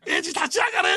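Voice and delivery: high, loud cheer to stand up; rallying shout. Retold or imitated. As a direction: urge him on like a fan. Friends cheering hero on. (応援の叫び)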